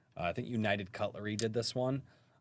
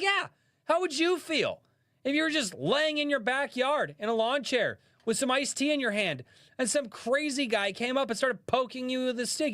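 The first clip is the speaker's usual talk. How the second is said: higher, louder excited Australian khaki-shirt showman; hammed-up Australian wildlife host, higher pitched; Steve Irwin impression; 4 dB louder than usual. Streamer retells an Australian comic's Steve Irwin bit, higher, hammed-up Australian. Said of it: "Steve Irwin bit".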